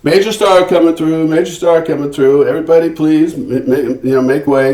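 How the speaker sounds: security entourage clearing the stairs, calling out. Retold or imitated. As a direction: announce it like a bodyguard clearing a hall. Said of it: "they go".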